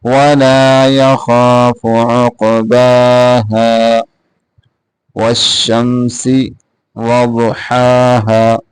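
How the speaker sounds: slow, measured tajweed chant; Quran recitation. Shown as a demonstration. Teacher recites the verse for students, slow tajweed chant. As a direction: recite slowly, drawing out the vowels.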